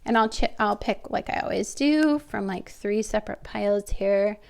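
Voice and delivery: stuffy nose from a cold; nasal cold voice. Real, not acted. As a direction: talk through a head cold, nasal. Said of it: "putting up with my nasally voice because of my cold".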